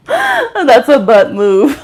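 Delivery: drawn-out indignant exclamation; mock outrage.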